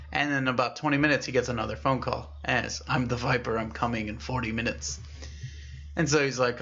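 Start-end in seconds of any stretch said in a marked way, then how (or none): 2.9-5.0 raspy caller voice. Acted. Viper calling back with a warning, lightly raspy. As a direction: softly imitate the raspy caller. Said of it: "it was a very raspy voice".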